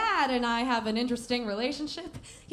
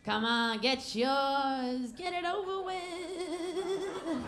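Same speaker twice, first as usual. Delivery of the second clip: tempting inner voice; 3 semitones higher, much slower than usual. Acted. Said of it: "I heard the other voice".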